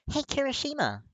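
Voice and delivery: high, loud call across the room. A narrator's reading. Uraraka calling to Kirishima across the kitchen, high and loud. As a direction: call his name brightly over the kitchen. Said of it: "Uraraka calls".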